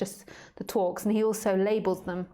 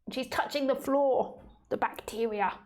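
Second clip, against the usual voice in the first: squeamish dog hater; 4 semitones higher than usual. Retold or imitated. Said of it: "dog haters".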